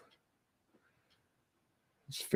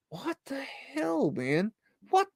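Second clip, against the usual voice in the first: whispered; 14 semitones higher, 6 dB quieter than usual. Real, not acted. Creeped out by strange photo.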